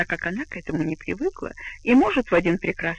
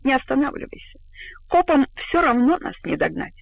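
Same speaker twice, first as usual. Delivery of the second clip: cocky; 6 semitones higher than usual. Acted. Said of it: "Юрген лихо предложил таксисту".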